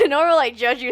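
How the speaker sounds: loud, mocking repeat of the sage. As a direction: throw his words back sarcastically. Says the guy judging you.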